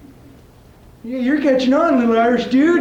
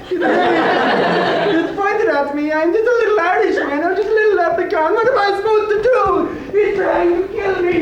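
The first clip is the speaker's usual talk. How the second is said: mock panic; 3 semitones higher than usual. Leprechaun panics at the knife.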